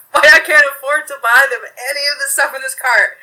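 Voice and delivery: a poor mother making her point at the till, swelling to loud; indignant mom. Retold or imitated. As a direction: retell the mom turning on the cashier, rising as she goes. Mom confronts cashier in story.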